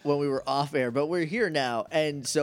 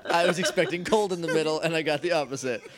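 laughing; 2 semitones higher than usual. Real, not acted. Laughing while telling.

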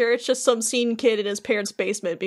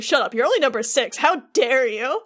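ranting. Retold or imitated. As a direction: imitate an outraged scientist, rushing then stretching the last words. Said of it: "goes on that big rant again".

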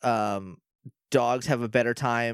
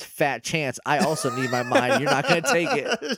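mock Mora; 2 semitones higher than usual. Host retelling Mora refusing the emperor: bratty child's voice. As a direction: play a bratty kid saying no. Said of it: "And she says".

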